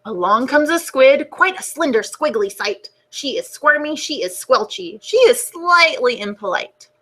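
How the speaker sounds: put-on gentle storybook narration for kids; reading to children. A narrator's reading. Teacher reading the class a book, storybook voice. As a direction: read it like story time on the rug.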